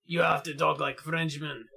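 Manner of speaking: hammed-up mock-French accent; bad French accent. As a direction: talk like a badly faked Frenchman. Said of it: "that's not how French people sound".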